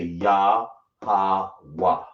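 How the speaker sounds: ya, ha, wa each said apart as its own syllable; syllables sounded out. Shown as a demonstration. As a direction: model the sounds one at a time for students. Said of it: "So you say".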